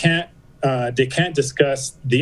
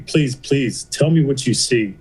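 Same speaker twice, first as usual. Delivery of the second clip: retold plea, only lightly acted; a mild imitation of begging; slower than usual. Patient pleads with sonographer to tell him, mildly begging. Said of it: "I just start begging".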